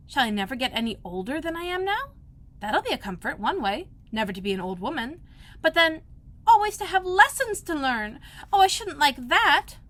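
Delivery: put-on a girl dreading lessons; Alice's voice. A narrator's reading.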